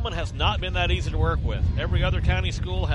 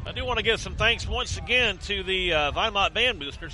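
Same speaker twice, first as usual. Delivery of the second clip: crunching food; 2 semitones higher than usual. Real, not acted. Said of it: "If you hear me crunching on some".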